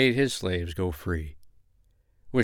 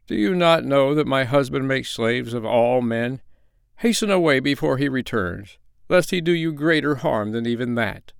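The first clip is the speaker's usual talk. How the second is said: lightly voiced she-bear, a little higher; urgent bear wife, warning; 4 semitones higher than usual. Bear wife warns the peasant of her husband, lightly voiced urgency.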